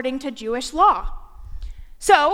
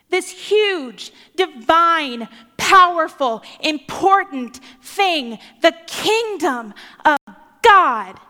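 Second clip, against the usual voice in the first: louder and louder, grandly; grand buildup; 5 dB louder, slower than usual. Acted. Preacher building up God's mighty kingdom, booming. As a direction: swell it up like something enormous.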